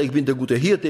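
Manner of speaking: „Hirte“ betont, „ich bin“ beiläufig; Betonung auf Hirte. Shown as a demonstration. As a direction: leg das Gewicht auf „Hirte“. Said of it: "auf den Hirten". (Aufzählung mit Akzent auf „Hirte“)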